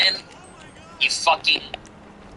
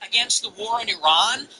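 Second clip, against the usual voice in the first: heated rant. Real, not acted. Rallying rant calling people out.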